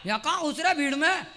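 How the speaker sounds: put-on loud call of a scolding old man; old man yelling. Old man scolding the comic in the crowd, loud yell. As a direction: yell at the young man pushing in. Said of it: "वो जोर से चिल्लाए".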